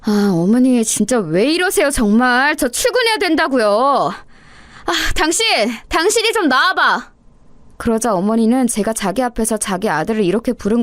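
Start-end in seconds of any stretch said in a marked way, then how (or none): 0.0-7.1 higher, pleading and exasperated; wife begging mother-in-law, calling husband out, exasperated; exasperated plea. Acted.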